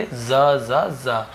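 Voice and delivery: ज repeated slowly and softly; slow sound drill. Shown as a demonstration. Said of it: "Z का होता है ज". (ज ध्वनि को धीरे-धीरे दोहराना)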